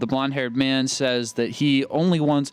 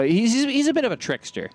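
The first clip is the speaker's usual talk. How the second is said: laughing through it; 9 semitones higher, faster than usual. Real, not acted. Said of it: "what are you laughing at?".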